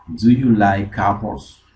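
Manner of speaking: slow model line. Shown as a demonstration. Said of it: "slow model repetition".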